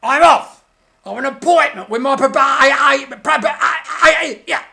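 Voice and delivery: loud fast flustered stammer; panicked. Acted. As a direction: babble in a panic to escape. Punch flees stammering.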